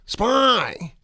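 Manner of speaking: put-on high-pitched little-kid "spy"; mock baby talk. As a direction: squeal it like a toddler's pet word. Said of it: "And he goes".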